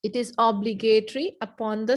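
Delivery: measured dictation; slow repeat. Shown as a demonstration. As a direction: repeat it for those writing.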